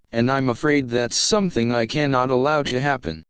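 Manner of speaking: calm HAL-like computer voice; unhurried polite AI, eerily calm; calm ship computer. Acted.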